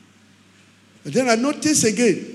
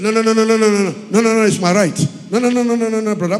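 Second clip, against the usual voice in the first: mock shout; much faster than usual. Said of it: "He just shouted".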